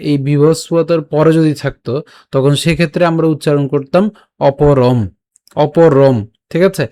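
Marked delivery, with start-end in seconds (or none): 4.5-6.2 অপরম closed on m; line-final m. Shown as a demonstration. Teacher models line-end anusvara, অপরম ending in m. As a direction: say অপরম with lips shut on the final m. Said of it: "উচ্চারণ করব হচ্ছে ময়ের মতো".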